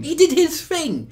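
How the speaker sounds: high, delighted recognition; excited. Real, not acted. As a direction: gush with glee. Excited about the meme.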